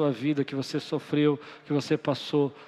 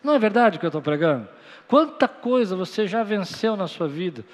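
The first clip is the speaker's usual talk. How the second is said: preacher's loud call; 3 semitones higher, 4 dB louder than usual. Real, not acted. Loud fast call to congregation.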